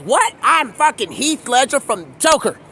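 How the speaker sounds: high-pitched mock outrage; indignant. Joker actor corrects his mistaken name, indignant. Acted retort to wrong name.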